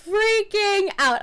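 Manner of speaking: high, loud and drawn out in panic; replaying the panic of that moment; freaking out. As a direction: let the inner panic spill out. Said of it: "I was so nervous and scared".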